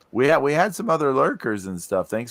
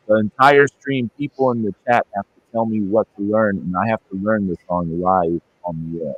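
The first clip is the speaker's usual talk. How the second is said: garbled, bubbly bad connection; underwater; 2 semitones lower than usual. Real, not acted. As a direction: sound like you're underwater. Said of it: "not sound like you're underwater".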